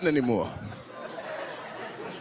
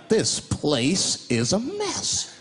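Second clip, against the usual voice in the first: very slow, deliberate detective act; survey it slowly, word by word; mock-serious investigator; crime scene investigator; much slower than usual. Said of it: "walk onto a crime scene like".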